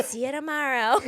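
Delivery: laughing botched impression; failed Jennifer Coolidge attempt. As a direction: try her voice and fail. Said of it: "I can't do it".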